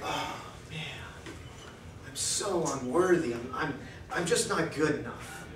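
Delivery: the wife whispering her hurt; whispered despair. Retold or imitated. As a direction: breathe it out, barely voiced, defeated. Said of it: "she's like".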